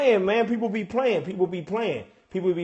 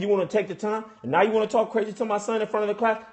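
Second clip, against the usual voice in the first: low, quick, softer muttered complaint; fast grumbling rant; 4 semitones lower, 5 dB quieter, faster than usual. Acted. Parent to son's teacher about homework, fast grumbling rant. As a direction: rattle off the grievance under your voice.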